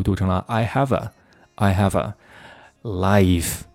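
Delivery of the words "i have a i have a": "I have a" with have and a joined as "hava"; "I have a" as one linked phrase. Shown as a demonstration. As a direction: run HAVE into A in "I have a". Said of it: "I have和a进行连读".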